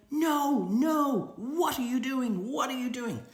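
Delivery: high, loud scolding "no, no"; mock shout at a duck. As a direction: yell at the duck like a frantic busybody. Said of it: "is shouting at the duck".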